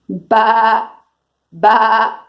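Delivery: short imitated sheep "baa"; sheep bleat. Shown as a demonstration. Teacher giving kids a clue for the sheep, bleating. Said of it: "The sheep says ba".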